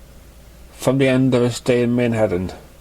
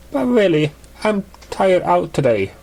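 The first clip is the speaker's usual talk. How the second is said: higher, lightly voiced excuse; feigned tiredness; 8 semitones higher than usual. Cloud fakes being tired to Raindrops, higher voiced. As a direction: sell a weary excuse.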